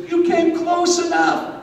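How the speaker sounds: put-on high, slow old-lady voice, hushed and sly; a grandmother luring the boy close; grandma voice. Grandma in the bathroom tells Johnny he came close, high slow granny voice.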